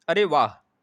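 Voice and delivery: a loud, sudden "अरे वाह" of pleasure; delighted exclamation. Shown as a demonstration. Teacher demonstrating an exclamation to the class, loud and delighted. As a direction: cry out in happy surprise. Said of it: "देखिए वही चीज़ में भी आ गया".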